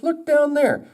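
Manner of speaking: high-pitched joke-character voice; excited beech tree. Acted. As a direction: point it out in a high put-on voice. Beech points out sapling.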